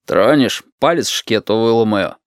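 plain reading voice

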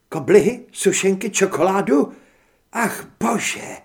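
high, loud, gushing list of treats; swooning over every sweet; thrilled. Acted. Heather thrilled about sweets.

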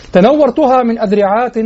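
إلقاء شعر؛ تنورتها تُنشد بنبرة صاعدة؛ أعد إنشاد تنورتها بالوزن؛ إنشاد تنورتها بنبرة صاعدة. Shown as a demonstration. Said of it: "طبعًا مع إثبات".

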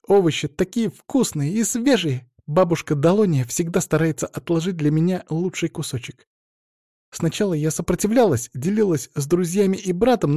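put-on high, bright girlish chatter; happy chirpy girl; cheerful cartoon princess. Tiara chatting happily.

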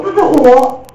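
高声自信喊出这句; 像对自己宣示一样大声喊; loud affirmation. Shown as a demonstration. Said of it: "就说". (老师示范看到单词就大声自我肯定)

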